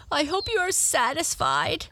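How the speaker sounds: high, put-on complaining voice; reproachful Tearful. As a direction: blame the frog in a high voice.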